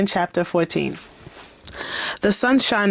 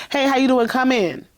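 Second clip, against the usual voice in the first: bright greeting; 6 semitones higher than usual. Retold or imitated. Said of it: "She basically said".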